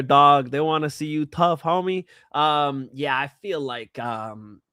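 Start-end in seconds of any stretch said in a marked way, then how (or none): 0.0-2.0 put-on Cholo accent. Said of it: "I went with the Cholo accent".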